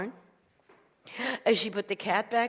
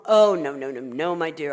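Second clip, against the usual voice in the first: low voice, loud first oh then easing; reassuring rabbi; 4 semitones lower, 6 dB louder than usual. Acted. Rabbi reassures the worried woman, reassuring. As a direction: soothe her with a low string of noes.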